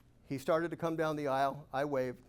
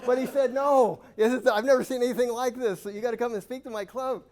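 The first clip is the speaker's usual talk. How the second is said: higher and louder, laughing through the quote; 8 semitones higher, 10 dB louder than usual. Real, not acted. Speaker quoting Jack's invitation to the audience, still laughing. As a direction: keep laughing while quoting.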